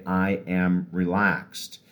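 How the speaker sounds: slow, easy mantra; slow relaxed affirmation. Shown as a demonstration. Coach offers another affirmation, slow and relaxed. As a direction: draw it out, relaxed. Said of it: "do it very slowly".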